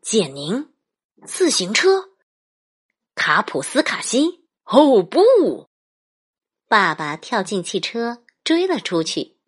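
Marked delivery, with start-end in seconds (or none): 0.0-5.7 alarmed dad calling out; rising panic, ending in a cry; grandpa voice. Acted. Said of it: "爸爸说".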